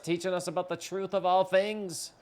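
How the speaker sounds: a village shaman preaching legend; solemn shaman voice. Acted. Reads shaman's solemn tale.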